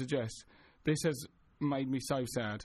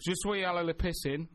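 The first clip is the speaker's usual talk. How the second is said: schoolboy French. Shown as a demonstration. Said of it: "doing our French lessons".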